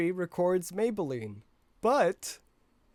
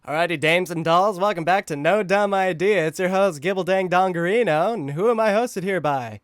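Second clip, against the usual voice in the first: 1950s radio host; 6 dB louder than usual. Acted. Old-time radio host intro.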